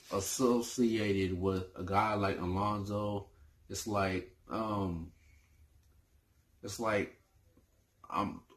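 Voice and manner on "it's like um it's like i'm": stumbling over words; tripping over each word; stuttering. Real, not acted. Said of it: "I'm stuttering over my words".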